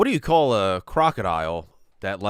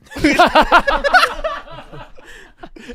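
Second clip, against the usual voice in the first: shrieking laugh; high burst of laughter; 8 dB louder than usual. Real, not acted. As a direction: cackle out loud. Reacts to repeated joke.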